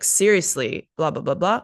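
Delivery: falling, sincere Seriously; earnest, level tone; meaning it; genuine. Shown as a demonstration. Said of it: "genuine depending on the intonation".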